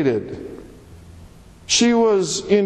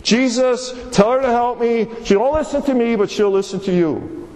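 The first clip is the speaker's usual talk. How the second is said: a touch of a higher, whiny tattling plea; lightly voiced complaint to Jesus; telling on her sister; 4 semitones higher than usual. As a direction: tell on your sister to the teacher. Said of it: "She's telling on her sister".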